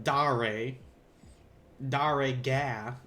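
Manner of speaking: slow Southern American drawl on Da, re, ga; southern accent. Shown as a demonstration. Teacher hams up her Southern American Da, re, ga. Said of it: "God, that's so southern".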